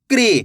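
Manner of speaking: क्री said as one syllable, k sliding straight into ri; teacher pronouncing क्री for pupils; ri-matra demo. Shown as a demonstration. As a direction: blend क्री into a single quick syllable. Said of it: "का का उच्चारण कैसे करेंगे".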